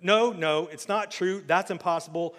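Luke's denial. Acted. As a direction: refuse the truth out loud. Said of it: "I'm not reading this right".

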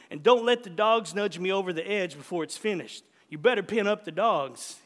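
lightly voiced stubborn old man giving orders; old man's orders. Old man gives burial orders.

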